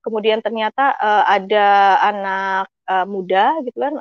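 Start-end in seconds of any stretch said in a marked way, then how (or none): none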